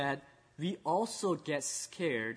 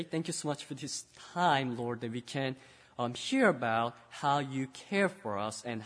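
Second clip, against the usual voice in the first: earnest spoken prayer to God; 3 semitones lower than usual. Acted. Pastor praying with the children, earnest and humble.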